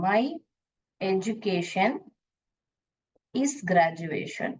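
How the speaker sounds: slowly spelling out the wrong sentence; slow wrong example. Shown as a demonstration. Teacher to class, slowly reading the wrong sentence. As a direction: lay out the mistake word by word. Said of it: "ये गलत होगा".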